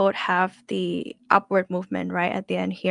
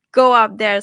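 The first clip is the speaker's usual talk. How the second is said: imitating students' overshoot; 7 dB louder than usual. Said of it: "you will be like".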